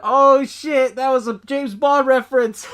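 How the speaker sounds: loud, high delighted realization; light up with a laugh; excited realization. Retold or imitated. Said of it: "And I thought".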